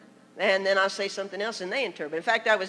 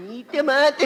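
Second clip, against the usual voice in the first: loud, higher put-on voice; theatrical, raised fairy-tale menace; hammed-up story villain; 4 semitones higher, 7 dB louder than usual. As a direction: play the hungry wolf for laughs. Acted line from three pigs story.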